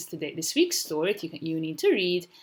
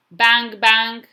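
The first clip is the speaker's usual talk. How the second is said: two loud, raised bangs; banging sound words; 5 semitones higher, 11 dB louder than usual. Acted. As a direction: hit each bang hard and high. Storybook noise words acted out.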